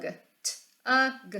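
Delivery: T-U-G spelled out letter by letter; sounding out words. Shown as a demonstration.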